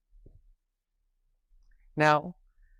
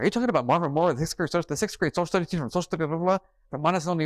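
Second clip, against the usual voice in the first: higher and quicker, a stranger thrilled to make the connection; excited recognition; 5 semitones higher, much faster than usual. Retold or imitated. Audience man at her talk, suddenly recognizing her uncle's name, excited and fast. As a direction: rattle it off in a rush, amazed.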